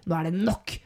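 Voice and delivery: controlled, final statement in an everyday pitch; authoritative. Retold or imitated. Imitating a man who has had enough, authoritative. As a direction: lay it down firmly without raising the voice. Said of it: "så er han plutselig autoritær. Han er sterk".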